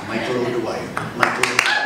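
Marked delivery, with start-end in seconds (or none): 1.2-1.9 name rolled out in a light Irish brogue; mellifluous Irish lilt. Shown as a demonstration. Showing off his stage name in a mild Irish brogue. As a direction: savour "O'Dwyer" with a gentle Irish ring. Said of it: "It has a very mellifluous sound".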